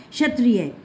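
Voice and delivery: क्षत्रिय opening on a sh sound; teacher models क्षत्रिय as shatriya; silent क in क्षत्रिय. Shown as a demonstration. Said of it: "श षटकोण की sound आ रही है".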